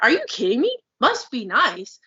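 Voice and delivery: heated, worked-up retort; indignant rant. Retold or imitated. Heated retort to people who say must be nice. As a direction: fire back at the belittling. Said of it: "I'm worked up, obviously".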